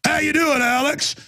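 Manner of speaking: a lightly voiced overfriendly redneck; redneck greeting. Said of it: "the kind of the redneck type and go".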